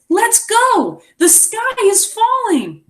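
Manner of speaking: high, excited alarm; urgent exclamation. Acted. Beaver waking Turtle, high and alarmed. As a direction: cry it out as if the sky really falls.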